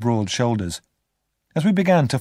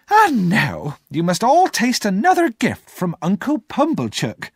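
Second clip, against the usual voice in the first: high, louder, slow hostess voice; sister to guests; 10 semitones higher, 4 dB louder than usual. Acted. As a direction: show off the pie proudly to the guests.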